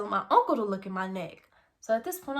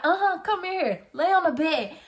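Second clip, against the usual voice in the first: stern mom; 10 semitones higher, 11 dB louder than usual. Retold or imitated. Mom calling daughter to the bed before a whooping, high stern mom voice.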